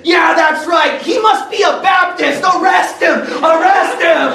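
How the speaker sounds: hammed-up triumphant yell at the police; mocking cheer. Preacher cheers arrest mockingly.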